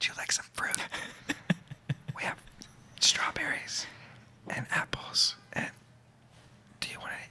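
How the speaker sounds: soft, hushed whisper. Retelling how crafty service staff offered fruit on set: imitating a whisper. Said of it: "whisper in your ear".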